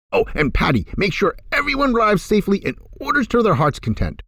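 put-on high, delighted old boss; a reformed miser bubbling with generosity; gleeful Scrooge. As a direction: Ebb treating his staff, giddy and high. Ebb voiced by narrator.

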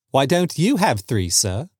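lightly cheeky, rising then dropping on sir; clever young son. Acted. Son teasing the soldier about wishes, mildly clever. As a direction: put it to him cleverly.

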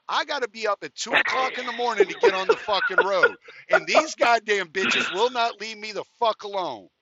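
hammed-up weary outrage; exasperated retold rant. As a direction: rant like you're at the end of your rope. Retells his exasperated complaint.

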